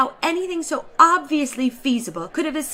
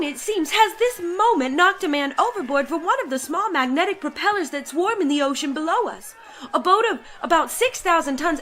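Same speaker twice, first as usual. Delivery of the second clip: laughing narration; 6 semitones higher than usual. A narrator's reading. Gleeful report of man overboard.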